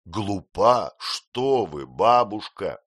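protest, stung; young man defending his bride; indignant exclaim. A narrator's reading. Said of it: "воскликнул я".

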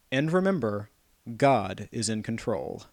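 slow, solemn reverend's sign-off; slow preacher voice. Retold or imitated. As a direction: intone it like a pastor. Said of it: "ends his outgoing message with".

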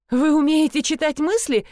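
amazed question about mind reading. A narrator's reading. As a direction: ask it in wonder. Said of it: "изумилась я".

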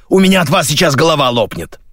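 high-pitched, exasperated wail; yelled. A narrator's reading. Radio voice is fed up with the crew, exasperated yell. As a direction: complain at full tilt. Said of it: "завопила рация".

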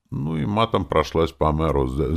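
ordinary delivery, nothing marked

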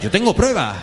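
high shouted claim, laughing; insistent shout. Retold or imitated. Caller shouting at the author, high insistent shout. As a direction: shout it like a crank.

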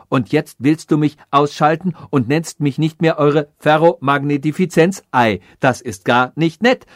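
a hint of a self-important machine rebelling; offended machine. Offended machine threatens the king.

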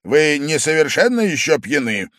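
loud, stern, fast question; menacing. A narrator's reading. Angry host confronts his drunk guest menacingly. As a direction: bear down on him threateningly. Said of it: "грозно к нему приблизился".

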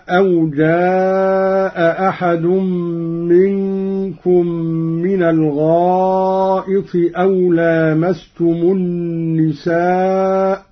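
جاء أحد recited with both hamzas; Quran recitation. Shown as a demonstration. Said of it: "قرأ قالون بإسقاط الهمزة".

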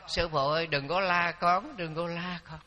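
a spirit pleading softly with the monk. Retold or imitated. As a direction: beg the master not to scold. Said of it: "nó năn nỉ".

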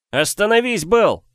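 loud, high pleading cry. Acted. Brother begs the brawler to stop, loud pleading. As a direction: beg him to stop. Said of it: "умолял Сиговес".

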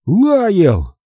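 high exclamation of a name; astonished cry. A narrator's reading. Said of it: "вскричал дядя". (изумлённый вскрик)

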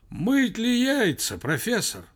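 high, drawn-out anxious call; anxious distant voice. A narrator's reading. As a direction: call worriedly down a long phone line. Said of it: "дальний мужской голос сказал в ухо встревоженно".

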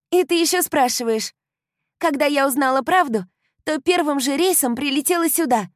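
put-on high, loud, gushing young woman; bubbly best friend bursting with joy; excited girlfriend. A narrator's reading. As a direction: euphoric girl talking nonstop. Kylie voiced high and loud.

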